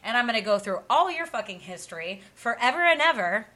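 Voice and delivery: building angry rant. Real, not acted. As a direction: rail at the nine-to-fivers. Ranting at the public.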